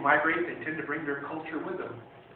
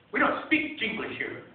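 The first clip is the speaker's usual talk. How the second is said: slow, higher, snippy dismissal; bitchy tone; 7 semitones higher, slower than usual. Retold or imitated. Grandmother shop owner snubbing the customer, snippy and slow. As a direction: sniff it out like a snooty shopkeeper. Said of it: "in a really bitchy tone".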